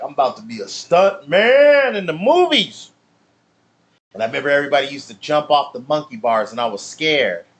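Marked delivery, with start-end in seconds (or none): 0.0-2.9 put-on excited kid boast. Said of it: "And I was like".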